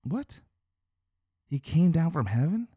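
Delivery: high-pitched baffled questioning, rising at the end; incredulous crowd. Retold or imitated. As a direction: act out murmurers who can't believe it. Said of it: "of the Jews saying".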